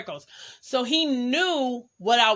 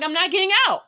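retold defiant refusal; 8 semitones higher, 4 dB louder, much faster than usual. Acted refusal in car quarrel.

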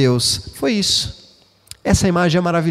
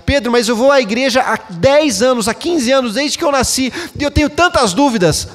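higher, pleading voice of an unsure believer; doubting churchgoer; 7 semitones higher than usual. Retold or imitated. Pastor voices a churchgoer doubting to him, pleading. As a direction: whine the doubts up high, half-mocking.

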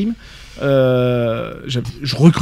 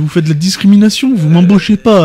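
louder, higher protest; mock aggrieved youth; 4 semitones higher, 4 dB louder than usual. Co-host plays candidate protesting to madame, mock aggrieved youth. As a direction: complain like a hammed-up rejected youngster.

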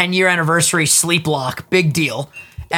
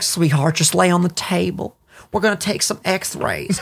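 slow-motion nurse; 3 dB quieter than usual. Retold or imitated. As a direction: drag it out like an unhurried nurse. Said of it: "they were so slow motion".

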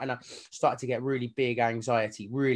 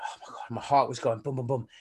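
very soft, whispery retold thought; hushed nervous aside; 2 semitones lower, 5 dB quieter than usual. Anxious man to himself walking to his course, hushed. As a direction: say it under your breath, barely voiced.

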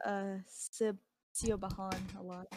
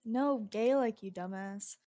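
loud annoyed yell across the room; shouting off to the side at a brother; 4 dB louder than usual. Real, not acted. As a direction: snap it at a sibling. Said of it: "I'm yelling at my brother".

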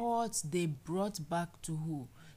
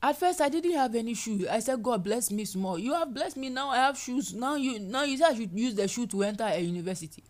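indignant complaint; 3 semitones higher, 6 dB louder than usual. Acted. Voicing complaining believer.

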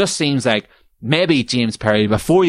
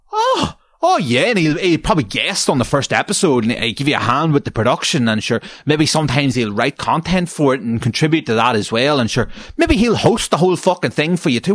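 heavy sarcasm; 4 semitones higher than usual. Acted. Sarcastic reply to poster.

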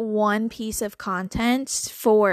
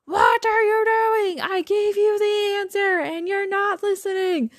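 high, slow, exasperated parent scolding; 9 semitones higher than usual. Retold or imitated. God scolding her like a parent with kids. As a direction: scold like a tired parent to a kid. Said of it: "like we do with our kids".

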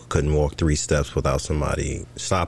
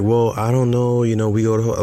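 mimicking wife; 6 semitones higher than usual. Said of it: "And she's like".

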